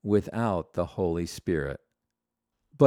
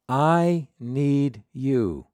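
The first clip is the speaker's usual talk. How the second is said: heartfelt plea; 2 semitones higher, much slower than usual. Acted. Voicing the heart's cry to God.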